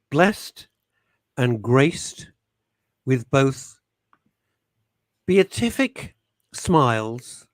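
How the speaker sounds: slow, stately announcer build-up; milk each pause like a compere; grand introduction. Pretend. Host introducing a guest with a slow, grand announcer voice. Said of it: "We've gotta do a proper introduction".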